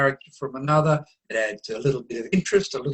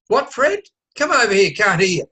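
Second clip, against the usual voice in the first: raised, higher call across a noisy room; 5 semitones higher, 5 dB louder than usual. Acted. Speaker breaks off to call Fred over, raised and higher. Distracted mid-conversation, calling to Fred.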